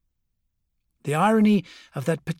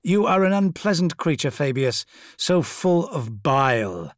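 sneering; 3 semitones higher, 5 dB louder than usual. Acted. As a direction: sneer it with disdain. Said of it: "Fulgrim sneered".

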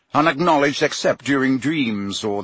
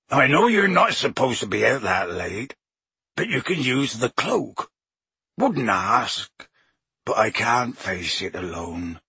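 Hagrid reading his letter. Acted. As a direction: read it as a heartbroken groundskeeper. Hagrid's tearful letter read aloud.

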